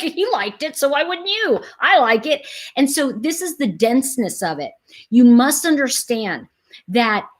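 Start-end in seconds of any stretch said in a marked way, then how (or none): 0.0-2.5 dense man. Retold or imitated. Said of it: "it's like".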